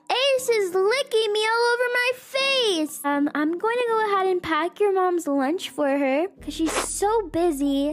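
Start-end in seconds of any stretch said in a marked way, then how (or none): 0.1-3.0 put-on high, eager little boy. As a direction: play an excited young son. Son voiced with dog.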